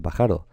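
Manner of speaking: pájaro as pa-JA-ro, stress on the middle syllable; wrong stress on JA. Shown as a demonstration. Teacher rejecting a second option, pájaro stressed as pa-JA-ro. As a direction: put the weight of pájaro on ja. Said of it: "Pues tampoco se dice pájaro".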